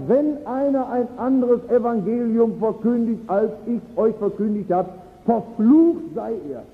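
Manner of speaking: emphatic quote, slowing on the curse; quoting a stern, uncompromising verdict; radical condemnation. Retold or imitated. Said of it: "das ist ganz radikal".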